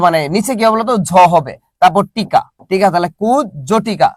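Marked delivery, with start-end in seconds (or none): 3.2-4.1 কুজ জটিকা with a break after kuj, then jhotika; slowly divide কুজ জটিকা as kuj... jho-ti-ka; split pronunciation. Shown as a demonstration. Teacher explaining the two consonants, কুজ জটিকা split after kuj.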